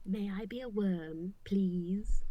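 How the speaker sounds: soft hopeful plea; timid quiet request. Acted. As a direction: ask shyly, almost whispering.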